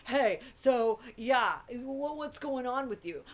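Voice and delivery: lightly imitated wary hospital worker; hesitant, halting check-in with a patient; mock tentative staffer talking through plastic; scared hospital staff. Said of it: "talking to you through this little plastic thing".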